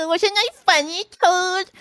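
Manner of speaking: high, giggly little Mole; self-delighted Mole. A narrator's reading. Mole showing off to Toad, delighted. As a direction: crow over your own joke.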